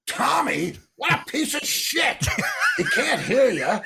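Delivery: imitating John mocking Tommy with a laughing shout; mock rant. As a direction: ham up John trashing the album through laughter. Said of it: "And John goes".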